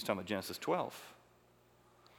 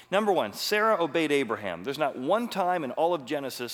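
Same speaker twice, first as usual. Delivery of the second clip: emphatic preaching; 3 semitones higher, 7 dB louder than usual. Real, not acted. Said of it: "preaching emphatically".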